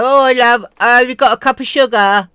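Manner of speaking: put-on high, loud posh old lady. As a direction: play a grand old dame begging sugar. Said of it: "She'd go up to people's houses and go".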